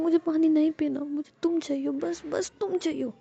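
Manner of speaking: high, needy insistence, slowing at the end; clingy pleading. A narrator's reading. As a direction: insist like you cannot let go. Ruhi clings, wanting only Jia. (लाड़ भरी ज़िद, ऊँचे सुर में)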